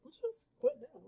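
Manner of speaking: put-on high whiny giving-up kid; Rourke's suggestion. A narrator's reading. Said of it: "Rourke had a suggestion".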